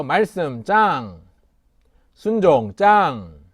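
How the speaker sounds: slow, loud chant line; children's sermon leader modeling a chant; slow call for the kids to repeat. Shown as a demonstration. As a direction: say it slowly so children can echo. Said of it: "한번 따라할까요?".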